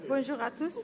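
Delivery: faint and distant, off-mic; standing back from the microphone; too far from mic. Real, not acted. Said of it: "Parlez plus près du micro".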